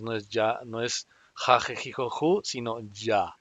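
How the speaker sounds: "ya" said with a j as in James, not a Spanish y or jota; teacher contrasting jota and English j; English j sound. Shown as a demonstration. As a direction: soften the j like James. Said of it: "la J americana".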